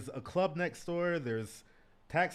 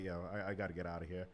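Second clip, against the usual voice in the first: muttered exit; 6 semitones lower, 7 dB quieter, faster than usual. Retold or imitated. Retold hurried exit line.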